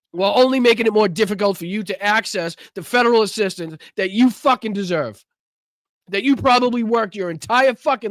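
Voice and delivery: fired-up protest tirade; furious rant. Real, not acted. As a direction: rage at the government on behalf of viewers. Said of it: "sorry for the fucking rant".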